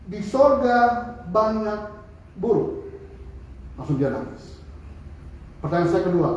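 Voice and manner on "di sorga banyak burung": drawn out very slowly, each word weighed; slow deliberate answer. Retold or imitated. Preacher slowly answers the transgender person's question. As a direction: say it slowly and carefully to him. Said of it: "Saya bilang sama dia gini".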